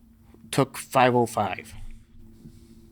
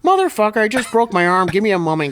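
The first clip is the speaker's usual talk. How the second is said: much higher, louder cry of pain; pained yell; 9 semitones higher, 6 dB louder, faster than usual. Retold or imitated. Lifter with a broken arm yelling at Lou, pained shout. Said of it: "I'm like".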